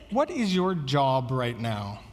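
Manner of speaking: low, slow, measured question; voice kept down. Retold or imitated. Children's leader steering a child back on task, voice kept low. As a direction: imitate a patient leader, voice never rising. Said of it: "Her voice doesn't go up".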